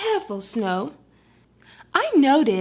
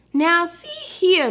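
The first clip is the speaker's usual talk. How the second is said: slow, raised scolding; 5 semitones higher, slower than usual. Acted. Frosty scolding the Martian, slow and stern. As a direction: lay down the law, slowly. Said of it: "scolded Frosty".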